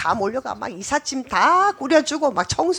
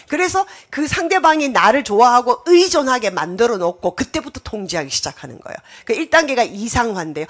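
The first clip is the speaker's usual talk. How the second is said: normal talking voice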